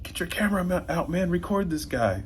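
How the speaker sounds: retold yell. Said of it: "one of the guys even yelled".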